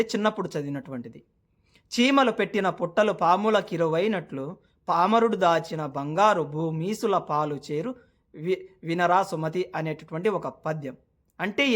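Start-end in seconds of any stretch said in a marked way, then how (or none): 1.9-9.6 slow, measured verse recital; poem recitation. Acted. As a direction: recite a remembered school verse slowly. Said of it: "నాకు ఒక పద్యం అయితే గుర్తుకైతే వస్తూ ఉంది".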